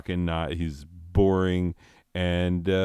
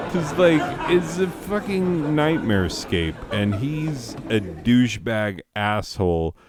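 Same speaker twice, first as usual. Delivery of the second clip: indignant outburst; 4 semitones higher than usual. Real, not acted. Ranting about the new owner.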